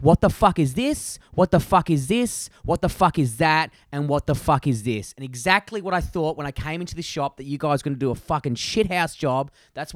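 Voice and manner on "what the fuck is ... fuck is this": retold angry rant. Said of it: "And I was like".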